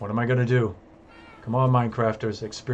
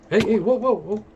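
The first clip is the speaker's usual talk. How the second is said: much higher, louder real startled whoas; 13 semitones higher, 9 dB louder than usual. Real, not acted. Player startled by a mob at night, real startled yelps. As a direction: yelp in real surprise as something jumps you.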